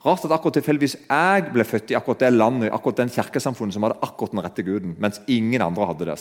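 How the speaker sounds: understated ironic comic impression; ironic Ricky Gervais. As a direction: tease the believers gently. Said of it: "sier han, iro-, ironisk".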